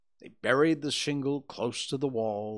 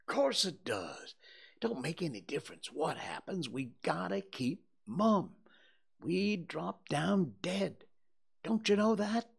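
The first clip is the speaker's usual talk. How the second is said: put-on a cocksure boy laying down the rules; insistent boy; 10 semitones higher than usual. Tom reassures Huck the oath holds, insistent.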